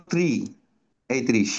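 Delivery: ত্রিশ said as trish, the r joined to t; teacher models ত্রিশ for the class; demonstrating tri. Shown as a demonstration. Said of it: "এইভাবে করবা উচ্চারণ।". (ত্রিশ উচ্চারণ করে দেখানো)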